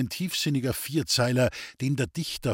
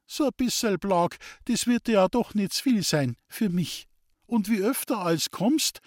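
tender lisping voice; 8 semitones higher than usual. A narrator's reading. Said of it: "Ganz lind und zärtlich war ihre Lispelstimme".

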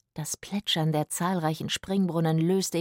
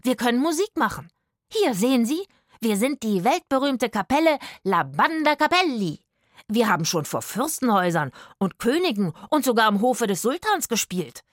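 higher, louder eager pitch; eager pleading; 4 semitones higher, 4 dB louder than usual. Acted. Rufus pleading with the guard for water, eager and raised. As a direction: sell the band fast and brightly.

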